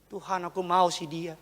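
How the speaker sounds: suddenly hushed mock prayer; pleading prayer. Believer asking God for a beloved, soft imitated pleading. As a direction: drop to a small, soft plea.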